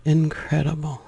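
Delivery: measured meditation voice, pausing between phrases; spacious, reverent meditation delivery; guided meditation. Acted. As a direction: let each word land slowly, guiding inward. Returns to the meditation.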